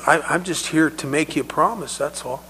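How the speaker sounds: put-on soft, unthreatening promise to a child; gentle reassurance. Paramedic returns to calm the upset girl, gentle reassurance. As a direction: ease off softly towards the end.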